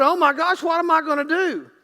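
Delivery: half-hearted hollering in mock alarm; mock panicked hollering. Imagined owner of a burning phone, mock panic. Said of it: "you would be screaming and hollering".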